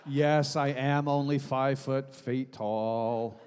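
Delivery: bored customer at the counter; deadpan registration request; DMV voice. Retold or imitated. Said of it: "that's the D M V voice".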